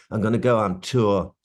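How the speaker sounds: put-on refined London accent; smoothed-out Cockney with a little rasp; posh-leaning London impression; a famous singer. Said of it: "this Bowie".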